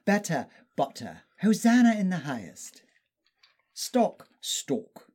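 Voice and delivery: British dialect drill, word by word; demonstrating an upper-class British dialect; upper-class British accent. Shown as a demonstration. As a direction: practise careful upper-class British vowels. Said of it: "trained really hard on the British dialect".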